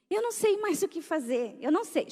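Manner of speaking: a hint of a tearful desperate mother; crying mother. (choro leve de mãe desesperada)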